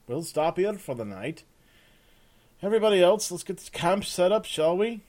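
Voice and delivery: loud, gruff-edged sergeant giving orders; bossy sergeant. Acted. Sergeant Peter telling Rusk the rules, bossy. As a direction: bark it like the camp boss.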